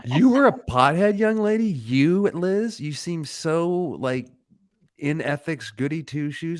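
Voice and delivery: high-pitched teasing disbelief; playful high-voiced amazement; mock astonishment. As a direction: tease her with exaggerated shock, voice way up. Teasing guest's pothead confession.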